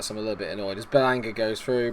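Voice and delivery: ordinary delivery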